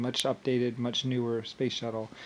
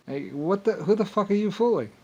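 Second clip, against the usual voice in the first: scornful yell; 8 semitones higher than usual. Real, not acted. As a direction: sneer it out at full voice. Scornful rant question.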